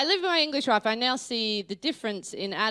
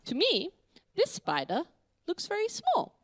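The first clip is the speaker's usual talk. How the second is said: mock formal; 6 semitones higher, 4 dB quieter than usual. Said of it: "we speak very formally".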